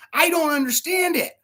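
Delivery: high-pitched mock bafflement; baffled protest. Everyone questioning the preacher, high baffled protest. Quoting baffled critics, climax.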